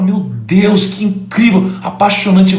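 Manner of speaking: high-pitched gushing wonder; retold rapturous reaction; awed admiration. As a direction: gush like a smitten listener. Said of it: "Eu falo".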